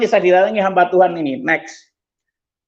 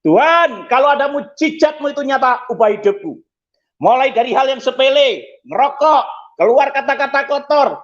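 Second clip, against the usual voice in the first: raised, higher-pitched pleading call; retold cry to God; 5 semitones higher than usual. Man crying out to God amid praise songs, retold shouted plea. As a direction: cry out a confession item by item. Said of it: "saya teriak".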